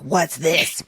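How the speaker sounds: lightly imitated stressed husband; a mock fretful outburst, breaking into laughter. Wife mimics husband opening the scary letter, stressed. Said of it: "He's stressed".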